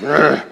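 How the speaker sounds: short exasperated "ugh"; mock growl of frustration; angry grunt. Walking over to the sanctuary angry, exasperated grunt. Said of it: "I'm angry".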